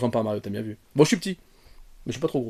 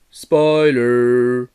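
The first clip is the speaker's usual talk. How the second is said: mock spoiler alarm; 7 dB louder than usual. Spoiler warning to viewers.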